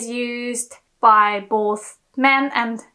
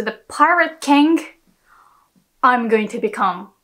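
"pirate king" raised at the front, then a drop; stress on PIRATE KING. Shown as a demonstration. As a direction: punch "pirate king", pause, let the rest fall. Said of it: "put the emphasis on the word pirate king".

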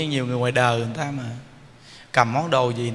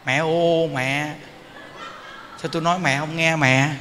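a mother's exasperated nagging, lightly done; mock nagging call; mild mock scolding. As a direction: scold the child, half in jest. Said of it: "kêu con gái mình bằng mẹ".

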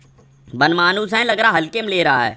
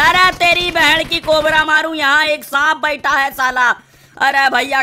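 high-pitched, startled outburst; startled cursing yell; 7 semitones higher, 4 dB louder than usual. Real, not acted. Gamer finding a hidden enemy, startled yell. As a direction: yell the curse in sudden alarm.

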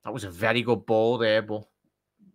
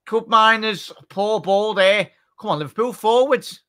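much higher, louder cry at the forwards; frustrated urging; 10 semitones higher, 6 dB louder than usual. Real, not acted. Fan at the screen urging Liverpool forwards, higher and louder. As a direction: groan and urge the forwards on.

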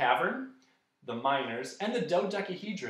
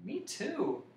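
small, higher complaint; complaining; 8 semitones higher, 4 dB quieter than usual. A narrator's reading. Hungry Milo agreeing with the bug, complaining. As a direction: grumble it softly in a higher voice. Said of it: "complained Milo".

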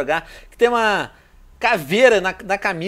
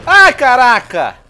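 louder, higher, drawn-out slow cry; startled exclamation; 6 semitones higher, 8 dB louder, much slower than usual. Real, not acted. Seeing the killer coming, a drawn-out startled cry. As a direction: let it burst out in alarm. Reacting to a chase.

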